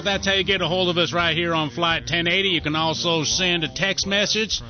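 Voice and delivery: hammed-up country twang with a yeehaw; country accent. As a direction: do a stereotypical country radio host. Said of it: "what do you think of that country accent".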